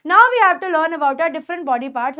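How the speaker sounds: slow, deliberate English for students; slow teaching read. Shown as a demonstration. Teacher reading to students, slow and clear. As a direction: spell it out slowly for the class. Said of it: "teacher models slow English sentence".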